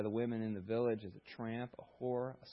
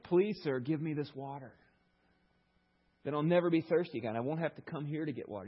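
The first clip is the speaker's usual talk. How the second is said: sarcastic; 3 semitones higher, 3 dB louder than usual. Retold or imitated. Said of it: "She's like".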